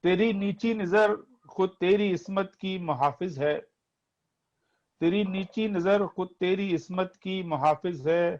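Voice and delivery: poetry recitation. Acted. Reciting Majaz nazm to audience.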